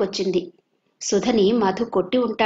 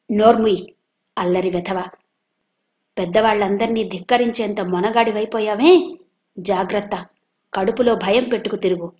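stern angry scolding. Acted. Uncle scolding Madhu after slapping him, angry. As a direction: put the fear into the boy.

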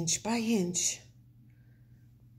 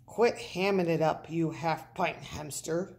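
snarl; 2 semitones lower than usual. Acted. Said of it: "snarled Big Bark".

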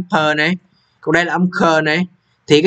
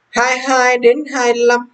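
slow and high; slow announcing; 6 semitones higher, much slower than usual. Shown as a demonstration. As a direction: draw the numbers out slowly. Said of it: "slow announcing the section". (đọc chậm, giọng cao khi giới thiệu phần mới)

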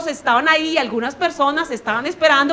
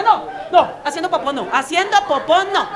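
mock denial. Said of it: "lo borra y dice".

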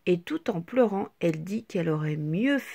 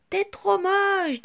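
higher, louder, slow mean drawl; taunting child; 10 semitones higher, 4 dB louder, slower than usual. A narrator's reading. Petit Rond insults Petite Tache, higher slow taunt. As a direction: stretch out the insult. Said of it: "dit Petit Rond".

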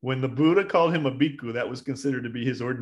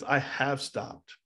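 slow, measured, unruffled answer; calm reply; 3 dB quieter, much slower than usual. Retold or imitated. Buddha answering the bandit who challenged him, calm. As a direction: repeat it slowly and evenly.

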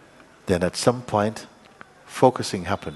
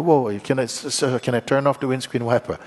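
panicky; 3 semitones higher than usual. Retold or imitated. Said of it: "you panic".

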